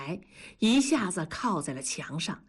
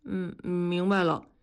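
put-on obedient little boy. A narrator's reading. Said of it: "大宝乖巧的点头说".

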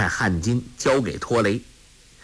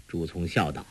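usual speaking voice

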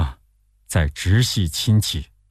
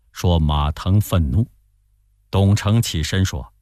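ordinary delivery, nothing marked

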